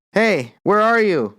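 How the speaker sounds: slow, half-hearted call into the dark; mild mock yell. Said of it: "so I yelled".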